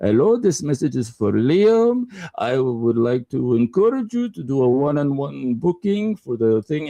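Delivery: put-on speaking with Middle Eastern accent. Retelling a call-center voicemail left for Liam, Middle Eastern accent. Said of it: "Then I hear this Middle Eastern voice".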